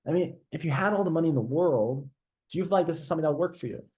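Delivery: soft, curious, quickly asked; curious tonality. Shown as a demonstration. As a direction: ask gently as if puzzled. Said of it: "notice the tonality there".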